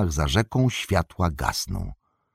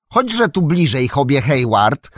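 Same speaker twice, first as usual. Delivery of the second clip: put-on high, loud call to an old friend; 8 semitones higher, 6 dB louder than usual. A narrator's reading. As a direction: call him over loudly. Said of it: "zawołał Mary". (Merry głośno woła znajomego strażnika)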